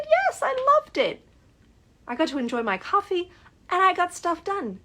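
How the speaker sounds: very high, fast, giddy squeal; squealing with excitement. Retold or imitated. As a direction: bubble over like she can't contain it. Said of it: "she is so excited".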